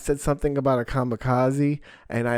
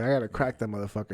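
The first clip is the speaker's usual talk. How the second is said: inner thought; much faster than usual. Retold or imitated. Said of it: "I was like".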